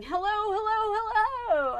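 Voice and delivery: high, loud pet greeting; channeled pet. Acted. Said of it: "he's saying".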